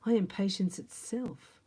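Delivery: slow whispered mock calm; mock patience. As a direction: whisper it like a saint pretending. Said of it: "You go".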